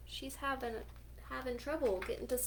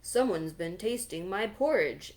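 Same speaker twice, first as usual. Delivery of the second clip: louder, booming papa bear; great big voice; 2 semitones lower, 6 dB louder than usual. Acted. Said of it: "in his great big voice".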